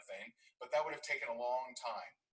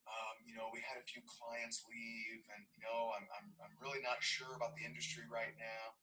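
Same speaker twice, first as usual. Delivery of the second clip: deflated admission. Retold or imitated. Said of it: "there was a sigh".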